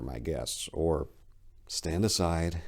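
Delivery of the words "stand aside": said simply. Acted. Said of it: "he said simply".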